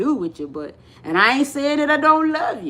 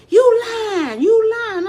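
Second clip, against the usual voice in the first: high, drawn-out mock disbelief; imitated disbelief; 9 semitones higher, 4 dB louder, slower than usual. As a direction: play an astonished friend refusing to believe it. Passengers disbelieving her.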